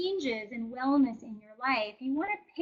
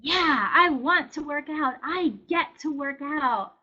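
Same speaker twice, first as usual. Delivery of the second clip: slow, louder, upbeat "want to"; eager willing; 2 semitones higher, 4 dB louder, slower than usual. Retold or imitated. Self-talk choosing to exercise, eager and willing. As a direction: say it like you mean it.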